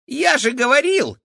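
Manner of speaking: very high whiny squeak; squeaky rat voice. A narrator's reading. Rat man whining to his wife, very high. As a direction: whine it like a fussy rat. Felix voice.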